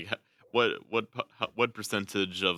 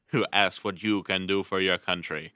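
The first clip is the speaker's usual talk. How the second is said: lightly voiced Boston accent; a hint of a Boston speechmaker's accent; JFK. Shown as a demonstration. Finishing the famous quote for a friend, light Boston accent. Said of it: "think, like, J F K".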